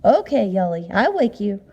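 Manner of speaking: talking through a mouthful of popcorn; mouth full. Acted. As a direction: mouth full, chewing while speaking. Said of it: "through a mouthful of popcorn".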